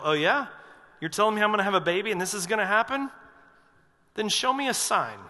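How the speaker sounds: fast, disbelieving demand for proof; skeptical challenge. Retold or imitated. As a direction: rush it like you don't buy a word. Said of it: "he's saying to the angel".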